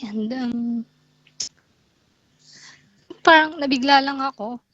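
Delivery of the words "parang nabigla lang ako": tearful, worn-out voice; crying, worn out. Real, not acted. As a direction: talk through tears. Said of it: "you sound like you're crying".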